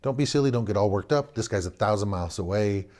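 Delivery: head of house calming wife and son; father explaining calmly to wife and son; reassuring father. Retold or imitated. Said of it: "head of the household".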